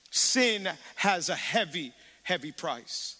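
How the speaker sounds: sin has a heavy, heavy price, slowly weighted; slow emphasis. Real, not acted. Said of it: "emphatic repeat".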